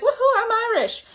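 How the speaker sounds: high, cheering "Woohoo, I'm Irish" with a laugh; mock party cheer. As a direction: playfully whoop "Woohoo" like on Saint Patrick's Day. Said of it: "of course I'm gonna be like".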